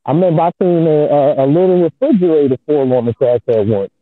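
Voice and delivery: muffled like through a wall; bad Bluetooth headset sound. Real, not acted. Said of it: "you sound real muffled".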